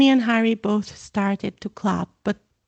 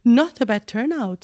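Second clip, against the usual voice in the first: proud; 3 semitones higher, 3 dB louder than usual. Acted. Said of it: "said Sir Nicholas proudly".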